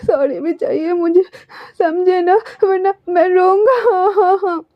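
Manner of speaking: high, whiny tearful demands. A narrator's reading. Wing demanding a public sorry, high and teary. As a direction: threaten to cry like a spoilt child. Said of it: "अपने आंसू को wipe भी कर रहा था".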